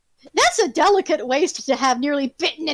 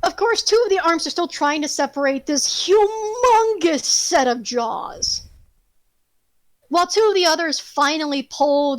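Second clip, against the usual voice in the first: game master's battle narration. Acted. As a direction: build up the killing strike, leaning on the big words.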